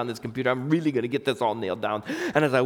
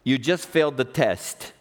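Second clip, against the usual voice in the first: God's verdict; slower than usual. Retold or imitated. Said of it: "I heard God say".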